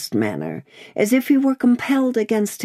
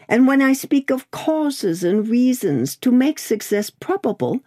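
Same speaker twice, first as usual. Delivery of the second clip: Lorry's firm point; 10 semitones higher than usual. A narrator's reading. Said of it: "Lorry explains firmly".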